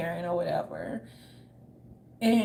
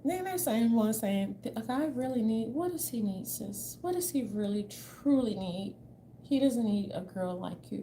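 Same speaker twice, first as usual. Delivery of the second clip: mocking preachy women; 4 dB quieter than usual. Mocking women online lecturing about guys, preachy. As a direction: parody a self-righteous advice giver. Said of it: "they be talking like this".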